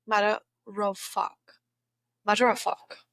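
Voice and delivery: "matter of fact" as "matta-ro-fuck"; trying out Aussie "matter of fact"; Aussie pronunciation. Shown as a demonstration. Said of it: "sounds like matter of fact".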